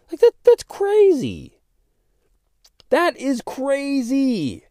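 high, loud, exclaiming in disbelief; really fired up, pitch flying high. Real, not acted. Podcaster fired up about borders, high excited outcry. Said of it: "I get so fired up about this".

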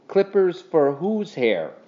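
wary, drawn-out question; suspicious. A narrator's reading. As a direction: ask it slowly, with suspicion. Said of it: "he asked suspiciously".

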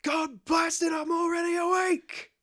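high, loud, furious-sounding protest; mock exasperated shout. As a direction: holler like someone soaked a second time. Gibbs doused a second time.

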